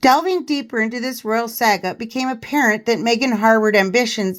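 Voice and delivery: measured, emphatic news-style reading; article read-aloud. Acted. Host reading a royal biographer's revelations to viewers, article read-aloud.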